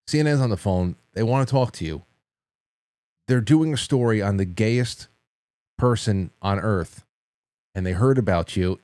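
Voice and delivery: understated, straight-faced prank delivery; mock-grave and measured; deadpan serious. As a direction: deliver the absurd news in earnest. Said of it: "and I was very serious".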